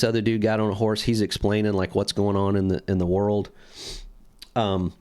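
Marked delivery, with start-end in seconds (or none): 4.6-4.9 echoey room sound; big hall echo. Real, not acted. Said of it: "we sound echoey?".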